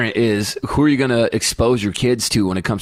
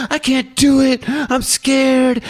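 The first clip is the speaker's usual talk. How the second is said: put-on scared little girl; 13 semitones higher, much slower than usual. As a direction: beg like a terrified kid. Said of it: "She goes".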